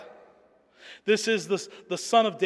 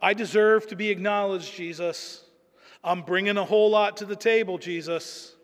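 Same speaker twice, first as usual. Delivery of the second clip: entitled demand; 4 semitones higher, 4 dB louder than usual. Retold or imitated. Preacher mocking a proud petitioner demanding things from Jesus. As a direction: puff up and insist you deserve it.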